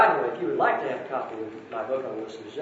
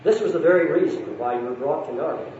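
a lightly voiced storybook reading with gentle lifts for each character; story narration. A narrator's reading. Speaker reading Narnia to the congregation, storytelling voice. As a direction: read it aloud like a bedtime story to a hall.

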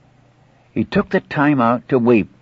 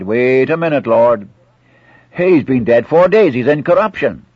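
raised, insistent objection; acted protest; 3 semitones higher, 6 dB louder than usual. Martha objecting at her brother's tomb, protesting. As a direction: break in to stop him, pitch lifting.

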